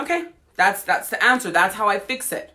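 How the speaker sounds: the body proudly finding its fix; mock body voice. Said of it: "your body is going".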